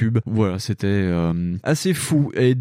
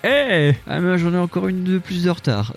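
mock complaining listener; 9 semitones higher than usual. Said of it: "il dit".

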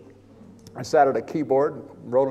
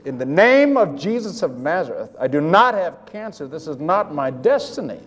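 forceful, emphatic declaration; retold inner roar. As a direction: declare it like a preacher rebuking illness. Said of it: "roared inside my spirit".

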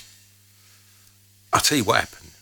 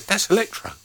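high, thrilled, mock-delighted outburst; excited exclamation; 13 semitones higher, 3 dB louder than usual. Recalling hearing a song years ago, excited high exclamation.

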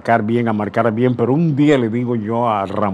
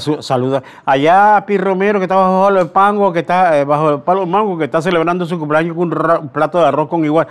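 louder, higher mock sportscaster sending greetings; tacky sports announcer; 6 semitones higher, 4 dB louder than usual. Veteran mocking today's announcers, louder and higher mock greetings. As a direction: parody a rambling announcer shouting out to friends. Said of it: "ahora son unas chabacanerías".

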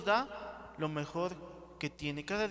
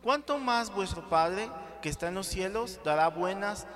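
loud scripture reading; 6 dB louder than usual. Acted. Preacher reads scripture aloud.

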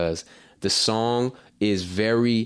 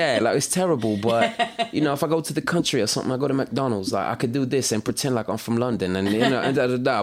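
bad British accent; 4 semitones higher than usual. Shown as a demonstration. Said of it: "trying to be English".

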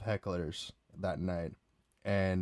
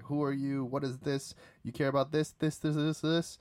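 mocking taunt; 6 semitones higher than usual. Mocking hecklers in a bar line.

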